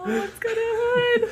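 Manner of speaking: squealing high with delight. Real, not acted. Delighted at baby onesie hood.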